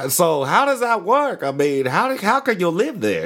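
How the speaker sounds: high, baffled mock Australian; Australian accent. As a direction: question it as an imitated Aussie. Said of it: "One of those dudes from Australia".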